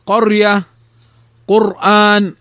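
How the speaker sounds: thick, dark ر in قرية and قرآن; careful model words, heavy ر in قرية and قرآن. Shown as a demonstration. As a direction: make the ر of قرية and قرآن full and emphatic. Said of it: "فخمت".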